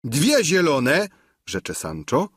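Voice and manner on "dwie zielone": high, slow eager squire; Sancho's voice. A narrator's reading. Sancho describes the sky goats to the duchess, high and slow. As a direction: savour each colour.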